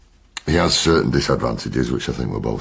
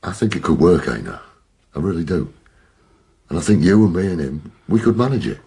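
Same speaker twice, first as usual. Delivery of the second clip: urgent pleading; 6 semitones higher, 5 dB louder than usual. Acted. Persuading a reluctant colleague.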